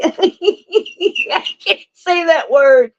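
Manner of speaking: high-pitched, slow words through giggles; real laughing fit squeezing the voice up; laughing helplessly. Real, not acted. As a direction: crack up at your own stumble. Cracks up stumbling over a word.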